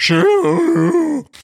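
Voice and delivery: mock very high, drunken, wailing creature voice. Retelling a moment from the show's preview, imitating Dorinda's drunk voice. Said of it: "It sounded like Chewbacca".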